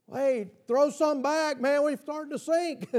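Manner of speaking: a mock panicked fisherman calling out; fishermen calling. Fishermen in the overloaded boat calling to partners, mock panic. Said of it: "fishermen calling out in sinking boat".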